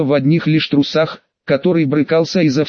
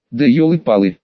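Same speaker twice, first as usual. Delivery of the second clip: ordinary delivery, nothing marked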